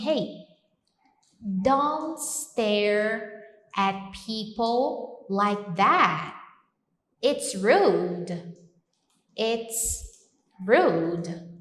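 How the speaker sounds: slow firm scolding; scolding example. Shown as a demonstration. Teacher scolding someone for staring, firm. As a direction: tell them off for staring, slowly. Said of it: "eu posso falar assim".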